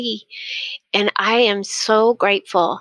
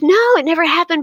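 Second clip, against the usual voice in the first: put-on quick, higher and louder eager child; excited insistence; 8 semitones higher, 4 dB louder, much faster than usual. Grandson insisting to his grandmother, excited. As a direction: blurt it out, thrilled. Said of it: "But he was so excited".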